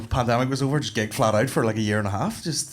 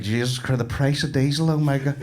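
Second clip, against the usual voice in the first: dad grumbling; 2 semitones lower, 5 dB quieter than usual. Retold or imitated. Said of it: "turning me into my dad".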